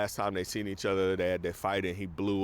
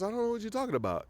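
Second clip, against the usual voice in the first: taunting denial; 12 semitones higher, much faster than usual. Retold or imitated. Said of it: "He's taunting him".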